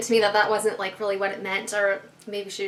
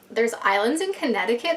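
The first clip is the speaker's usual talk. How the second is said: puzzled question. Retold or imitated. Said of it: "That's what I told her".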